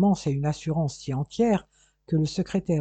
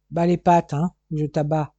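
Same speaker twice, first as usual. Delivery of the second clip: louder, hard warning to back off; a detective warning a suspect to keep still; stern warning; 6 dB louder than usual. Acted. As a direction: bark the threat at him. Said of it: "l'avertit Corfe".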